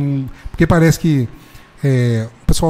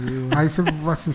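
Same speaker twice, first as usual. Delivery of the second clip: normal talking voice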